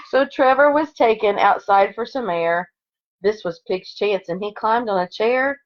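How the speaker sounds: lively storybook read-aloud; expressive picture-book narration; reading to children. Acted. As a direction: read it like story time for second graders. Reads picture book to class.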